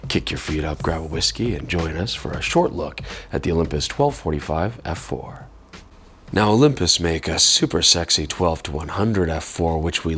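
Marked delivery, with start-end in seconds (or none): 0.1-5.5 late night radio voice. Real, not acted. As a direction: invite them in like a night DJ. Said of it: "my late night radio voice".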